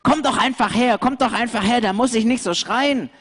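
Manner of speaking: high, coaxing goat voice calling the lambs over; a sly billy goat beckoning from afar; luring goat. Acted. Goat calls the lambs to come over, high and coaxing.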